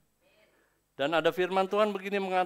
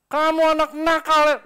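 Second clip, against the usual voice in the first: loud, higher angry rebuke; cursing scold; 13 semitones higher, 15 dB louder than usual. Retold or imitated. Angry parent cursing a child who talks back, loud harsh rebuke. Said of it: "itu nakal mengutuk namanya".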